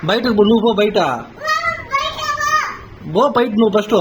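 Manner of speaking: shouting get-out order; angry shout. Real, not acted. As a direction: yell them out of the room.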